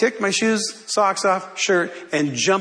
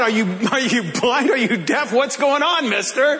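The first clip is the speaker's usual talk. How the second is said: imitating a mad police officer; mildly indignant, hammed-up string of questions; mock angry; 4 semitones higher than usual. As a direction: act out an exasperated cop, lightly. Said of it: "he's just so mad".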